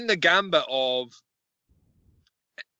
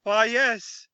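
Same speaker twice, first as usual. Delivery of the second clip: higher put-on voice of a disguised villain; Dark Helmet; 5 semitones higher, much slower than usual. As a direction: pretend to be her reassuring father. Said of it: "And he's like".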